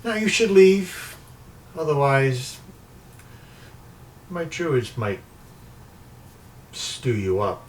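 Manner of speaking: lightly voiced threat, starting high and slow; menacing sorceress. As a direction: send them off with a veiled warning. Sorceress dismisses player with threat.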